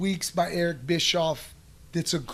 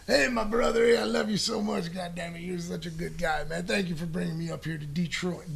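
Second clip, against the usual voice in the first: put-on Jamie Dundee Southern accent. Wrestler thanking promoter for Detroit booking, mock Southern accent. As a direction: play the Australian putting on a Southern accent, half-hearted. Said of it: "he's got this thick Southern accent".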